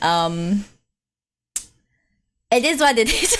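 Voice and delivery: ordinary talk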